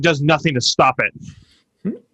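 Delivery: drawn-out, mock-indignant comeback; retold anger. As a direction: mildly re-enact an angry objection. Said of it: "So angry".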